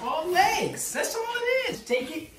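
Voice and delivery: high, strained lifting voice; straining with effort. Real, not acted. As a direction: push the words out while heaving. Hauling a heavy boxed bed.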